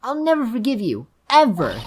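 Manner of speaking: put-on high child's voice, reproachful; hurt little Pearls.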